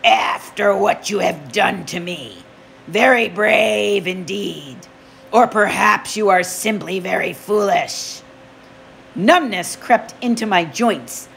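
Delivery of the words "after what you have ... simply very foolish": a touch of oily menace. Acted. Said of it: "in an oily voice".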